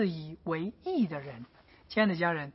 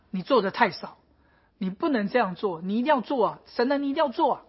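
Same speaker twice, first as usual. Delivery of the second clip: insistent, nagging demand; complaining prophet. Retold or imitated. Habakkuk complaining that God does not answer prayer, insisting. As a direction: press God to act, insisting. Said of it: "哈巴谷又抱怨".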